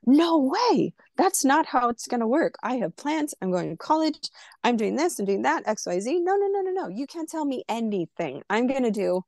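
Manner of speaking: put-on teen shouting down a church woman, high and heated; retold angry yelling. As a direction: throw every no back at her in anger. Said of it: "just yelling at her".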